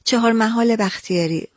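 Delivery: correcting a place name, no "و" between "محال" and "بختیاری"; corrected pronunciation. Shown as a demonstration. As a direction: link the words as "محال بختیاری", with short -e and no "و". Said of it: "نه".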